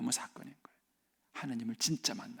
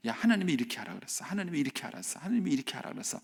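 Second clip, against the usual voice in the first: nagging parent; 2 semitones higher, faster than usual. Retold or imitated. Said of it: "하고 자꾸 얘기를 하는 거예요".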